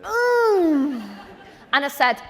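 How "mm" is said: awkward mm. Retold or imitated. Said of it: "And you know when you just go".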